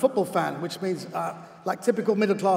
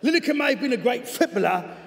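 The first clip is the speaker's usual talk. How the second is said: higher-pitched cockney with a clearer "footballer"; cockney, second attempt; 4 semitones higher than usual. Coach's letter judging the presenter as a player, in corrected cockney. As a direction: retake the line in measured cockney. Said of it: "I may have overcockneyed that".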